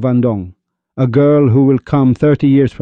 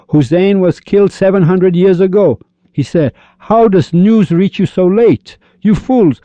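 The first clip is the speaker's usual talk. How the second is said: mock exasperation; 6 semitones higher than usual. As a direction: throw it back at them in amused exasperation. Mourners and Rumi argue, mocking.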